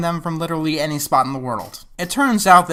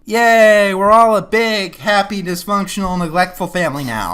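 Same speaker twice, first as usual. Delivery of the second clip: sarcastic cheer. Acted. Mocking happy ending.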